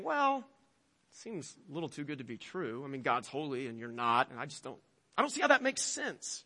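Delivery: soft, hushed skeptical murmur; quiet grumbling inner skeptic; doubting inner voice. Acted. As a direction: talk low like your own doubts creeping in. Voicing the doubting flesh.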